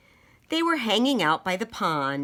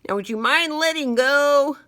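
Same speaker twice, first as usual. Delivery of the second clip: pointed request; 7 semitones higher, 6 dB louder than usual. Acted. Friend wants the bug released.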